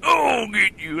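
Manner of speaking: squeaky yelling little man; tiny guy voice. Retold or imitated. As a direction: imitate a tiny guy with a big shouted voice. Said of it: "this little tiny guy".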